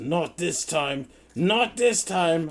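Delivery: very high, shrill frustrated growl edged with panic. A game master voices a foe who has missed the player twice, as a frustrated growl. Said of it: "He growls at you in frustration".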